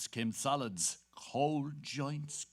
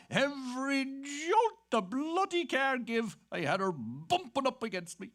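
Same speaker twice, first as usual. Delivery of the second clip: laughing; 11 semitones higher, 4 dB louder than usual. Acted. Lewd tale told with laughter.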